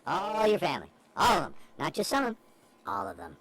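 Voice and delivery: lightly voiced elf calling out; a hint of an excited elf; christmas elf. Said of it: "one more shout out for".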